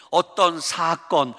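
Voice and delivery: ordinary talk, nothing marked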